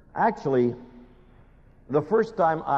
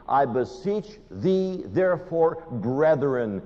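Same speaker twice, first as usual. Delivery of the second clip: personal plea; much slower than usual. Retold or imitated. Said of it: "He's talking to me".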